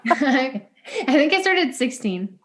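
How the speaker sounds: slow words through laughter; laughing. Real, not acted. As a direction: laugh as you say it.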